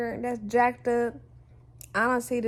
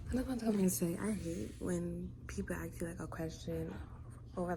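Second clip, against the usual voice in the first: hushed; 6 dB quieter than usual. Real, not acted. Hushed for rest of vlog.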